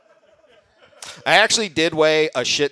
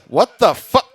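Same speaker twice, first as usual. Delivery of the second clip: mock outrage; 6 semitones higher, 8 dB louder, slower than usual. Reacting to the Fitbit.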